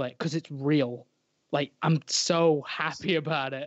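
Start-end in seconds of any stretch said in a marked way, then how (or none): 1.5-3.7 slightly choked up with happiness; choking up. Real, not acted. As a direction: hold back happy tears a little. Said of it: "You sound like you're choking up a little bit".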